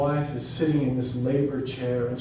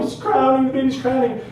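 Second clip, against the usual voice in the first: high, loud cry of good news; excited shouting; 10 semitones higher, 7 dB louder than usual. Retold or imitated. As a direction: call out the birth for everyone to hear. Onlookers calling out the birth.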